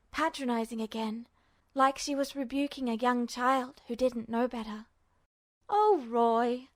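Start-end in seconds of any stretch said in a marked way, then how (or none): 5.7-6.7 mild scolding nurse voice; stern nurse. Acted. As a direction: chide him like a child. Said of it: "she lectured sternly".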